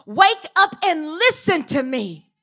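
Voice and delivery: a hint of a commanding God, slow. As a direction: call it out like God waking his people. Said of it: "But he said".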